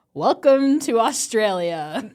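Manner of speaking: slow, drawn-out Australian greeting; Australian accent. Acted. Reader voices Seth arriving in Australia, Australian accent. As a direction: put on a hammy Aussie accent. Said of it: "Seth is like".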